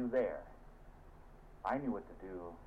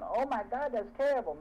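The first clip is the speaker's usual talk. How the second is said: onlookers; 7 dB louder than usual. Retold or imitated. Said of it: "hundreds of people going".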